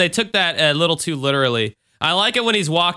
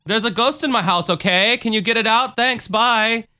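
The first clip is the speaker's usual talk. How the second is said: lightly higher, rushed casual call; hasty caller; 6 semitones higher than usual. Acted. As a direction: brush it off like a quick phone call. Voicing the caller to ghost hunters.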